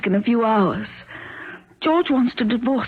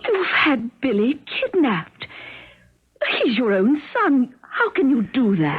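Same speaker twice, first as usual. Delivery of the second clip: tearful. Acted. Wife learns son kidnapped.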